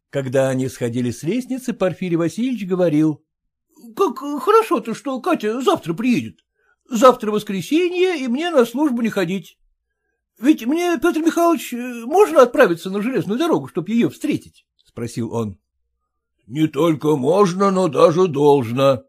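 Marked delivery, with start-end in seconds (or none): 3.6-14.7 put-on high, eager, fawning young man; a clerk eager to please his father-in-law; eager son-in-law. Son-in-law eagerly agreeing to father-in-law, voiced high. Porfiry asks about meeting Katya.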